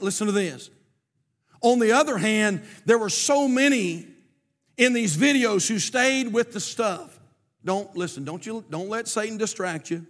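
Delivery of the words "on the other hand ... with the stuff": preaching. Real, not acted. Preaches at raised force.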